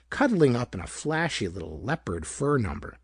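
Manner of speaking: ordinary delivery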